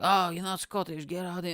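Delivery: high-pitched mock outburst; retold angry dismissal. Scottish girl rejecting a Bulgarian visitor, mock angry. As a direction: brush them off in imitated indignation. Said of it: "she started cursing at me".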